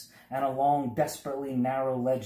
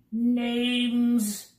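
louder, higher insistent official call; cried again; 11 semitones higher, 5 dB louder than usual. A narrator's reading. Census taker repeating his demand, loud insistent call. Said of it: "he cried again".

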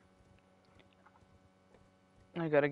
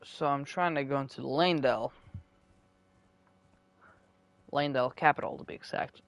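mouth full. Real, not acted. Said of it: "Currently munching on an apple".

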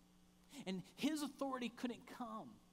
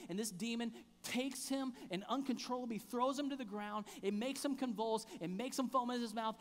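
louder, urgent father's plea; pleading father; 5 dB louder than usual. Acted. Father begging Jesus to heal his son, loud and urgent. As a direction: push it out like a desperate dad.

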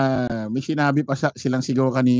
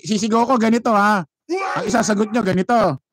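higher-pitched mock of the attorney coaching the crowd; 6 semitones higher than usual. Vlogger mocking the attorney coaching the crowd, higher mock voice. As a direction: send up a speaker scripting his audience. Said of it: "Sabi na Attorney Salpanelo, sabi".

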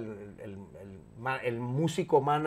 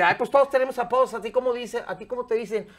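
camp gay voice; 7 semitones higher, 5 dB louder than usual. Retold or imitated. Gay man voiced in prank story.

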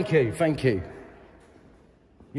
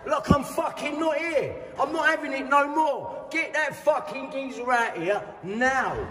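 raised, higher-pitched furious outburst; angry shout; 4 semitones higher, 3 dB quieter than usual. Real, not acted. Angry man shouting at council staff for the consultant. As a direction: shout it, fed up and ignored.

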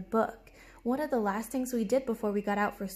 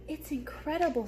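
a touch of amazed cloud voice, higher; lightly voiced wondering clouds; 5 semitones higher than usual. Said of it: "said the clouds".

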